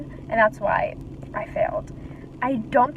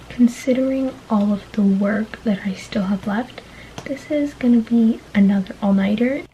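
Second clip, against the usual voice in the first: whisper. Real, not acted. Late-night vlog, whispering.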